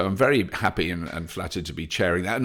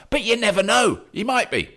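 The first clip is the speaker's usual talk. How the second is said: playful aside; 12 semitones higher, 3 dB louder than usual. Real, not acted. Joking aside about the brother.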